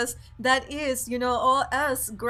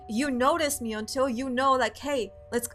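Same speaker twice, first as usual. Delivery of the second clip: a louder, urgent plea from the goddess energy; fierce goddess; 5 dB louder than usual. Retold or imitated. Voicing feminine energy that demands attention, louder and urgent. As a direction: demand to be noticed, pressing and insistent. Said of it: "the feminine energy being like".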